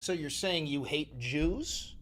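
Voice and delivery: slow, soft mock question; sarcastic. Streamer mocking the pundits' leap of logic sarcastically.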